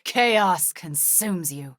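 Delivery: very slow, ominous incantation; ominous witch. Acted. Witch hexing an enemy, slow ominous curse. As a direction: drag out the curse.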